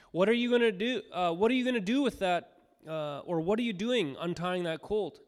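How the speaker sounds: lightly voiced bystander challenging the disciples; questioning bystanders. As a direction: ask it like a suspicious onlooker. Bystanders' question in scripture reading.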